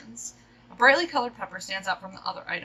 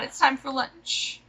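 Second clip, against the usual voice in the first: ordinary talk, nothing marked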